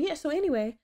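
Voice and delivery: as genuine as possible. Retold or imitated. Someone changing the subject on her, imitated as genuine. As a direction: lift the pitch, mock-sincere brush-off. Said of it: "in the most genuine p-, way possible".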